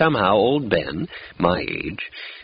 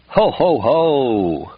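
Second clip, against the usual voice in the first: booming ho-ho-ho, higher and louder; hearty laugh; 5 semitones higher, 4 dB louder, much slower than usual. A narrator's reading. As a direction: laugh it out big and jolly. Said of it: "Hearty laugh".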